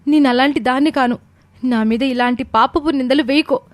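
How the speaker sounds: high-pitched, earnest plea; pleading innocence. A narrator's reading. Accused woman swears innocence to the angry mother, pleading. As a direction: plead against a false accusation.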